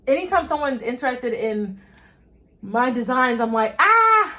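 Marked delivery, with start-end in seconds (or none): 3.8-4.4 high, loud squeal of delight; excited squeal. Retold or imitated. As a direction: squeal like you can't contain the joy. Squealing at interest in designs.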